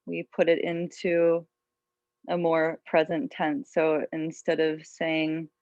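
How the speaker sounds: calm, unhurried yoga teacher voice; guided meditation. Real, not acted. Yoga teacher settling students into an intention, guided meditation. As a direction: guide them gently inward, leaving long pauses.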